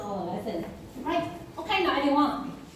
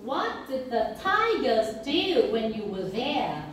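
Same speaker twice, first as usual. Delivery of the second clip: slow model question stressing "What", "tigers", "do" and "there"; stressed key words. Shown as a demonstration. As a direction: lift "tigers" and "do", keep small words light. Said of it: "Listen and repeat".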